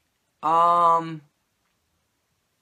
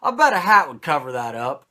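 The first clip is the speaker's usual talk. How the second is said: laughing; 6 dB louder than usual. Retold or imitated. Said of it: "Lawler says".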